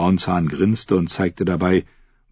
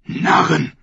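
higher, scornful exclamation; angry priest's outburst; 10 semitones higher than usual. A narrator's reading. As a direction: spit it out as a furious priest. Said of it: "fauchte der Priester". (wütend fauchender Priester)

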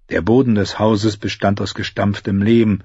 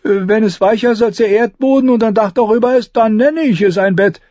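high, whiny gloomy voice; 13 semitones higher, 5 dB louder, faster than usual. Acted. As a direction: moan it like a glum squire. Gloomy Ed speaks.

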